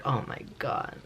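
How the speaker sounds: a stunned, whispered reaction; whispered oh my god. Retold or imitated. Reacting to friend's lecture.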